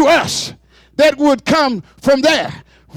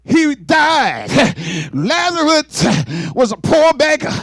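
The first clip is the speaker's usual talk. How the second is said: full-force preaching. Acted. Preacher booming the rich man story at the congregation, full preaching.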